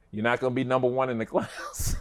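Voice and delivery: dad's blunt line laughing. Retold or imitated. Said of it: "And he said".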